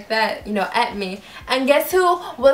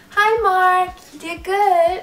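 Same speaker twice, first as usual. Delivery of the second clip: high, loud, singsong greeting; high sing-song fangirl; 9 semitones higher, 5 dB louder, slower than usual. Retold or imitated. Fan greeting Mark, sing-song and giddy. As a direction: chirp it like an excited fan.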